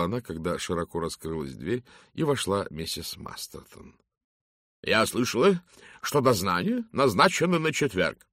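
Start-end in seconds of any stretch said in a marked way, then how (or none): 4.8-8.3 loud, resonant matron boom. Acted. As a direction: boom it out like a commanding lady. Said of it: "прогудела она своим зычным голосом". (зычный гулкий голос)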